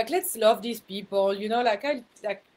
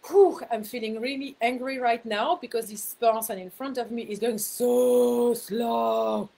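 imitating her road rage; 4 dB louder than usual. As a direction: drag it out, fuming behind the wheel. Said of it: "typical me in my car".

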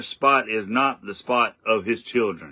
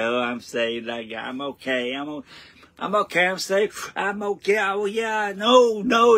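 climbing into a high, smug mock voice; preacher mocks a boastful Christian, high and smug; mocking a boaster; 10 semitones higher than usual. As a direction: parody the smug believer, rising higher.

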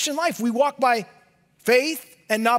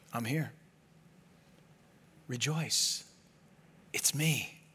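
tender hush; 11 semitones lower, 13 dB quieter than usual. Acted. Jesus comforting terrified disciples, soft tender hush. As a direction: whisper comfort to the frightened.

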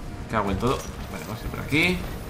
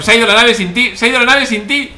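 mocking; 7 semitones higher, 6 dB louder than usual. Real, not acted. Mocking the enemy.

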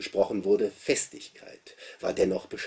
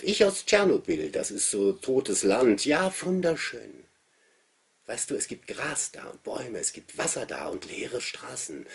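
put-on boy's voice; 7 semitones higher, 4 dB louder than usual. A narrator's reading. Narrator voices the boy Andreas.

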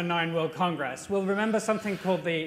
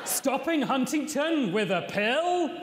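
teasing headline question with a lift; newsreader headline; 5 semitones higher, slower than usual. Acted. Co-anchor finishing the headlines, newsreader voice. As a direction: pose it like a bulletin teaser.

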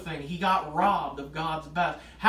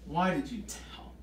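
disappointed; 4 semitones lower, 4 dB quieter, slower than usual. Retold or imitated. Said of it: "said you can hear the, the, the disappointment".

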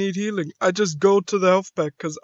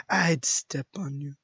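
lower, understated emotionless delivery; a hint of a cold assassin; Widowmaker; 4 semitones lower, 4 dB quieter than usual. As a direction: say it low with no feeling. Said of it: "like, Widowmaker has no feeling".

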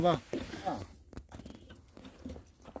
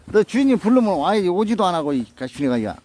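loud scolding; 4 semitones higher, 6 dB louder than usual. Real, not acted. Scolding dog again.

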